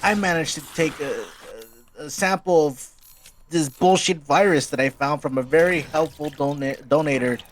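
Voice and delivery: high, smug villain voice; gloating Eggman. Acted. Eggman revealing his virus to Sonic, high smug gloating. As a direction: gloat like a cartoon mad scientist. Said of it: "He's like".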